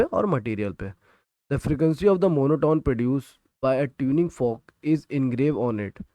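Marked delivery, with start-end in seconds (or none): 1.5-6.0 reading the textbook line word by word, slowly; slow, deliberate dictation for students to copy. Shown as a demonstration. Teacher dictating a textbook definition to students, slowly.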